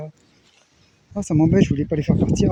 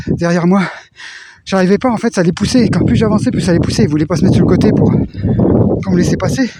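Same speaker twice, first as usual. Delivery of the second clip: loud, raised voice over gusts; shouting over wind; 3 semitones higher, 5 dB louder than usual. Real, not acted. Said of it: "si vous m'entendez avec le bois, avec le vent".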